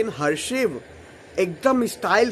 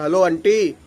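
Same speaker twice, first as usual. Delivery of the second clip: low, cool and firm talking-to; lightly firm, lower voice; tight, firm; 4 semitones lower than usual. Shown as a demonstration. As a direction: put the aunty in her place, coolly. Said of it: "मैं बताता हूँ कैसे बोला था".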